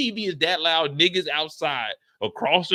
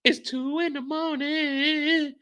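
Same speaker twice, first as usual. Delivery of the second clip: high incredulous whine; 6 semitones higher, slower than usual. Acted. Confused late-night rant.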